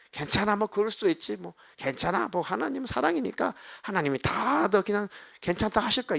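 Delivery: lightly mocking cheap comfort; mock easygoing reassurance. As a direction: brush it off like a careless pastor. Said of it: "이건 사랑이 아니에요".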